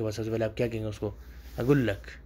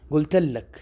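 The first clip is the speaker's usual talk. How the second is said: high, loud قلت لک as in "I told you!"; exasperated insisting; 5 semitones higher, 8 dB louder, much slower than usual. Shown as a demonstration. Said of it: "لہجے سے".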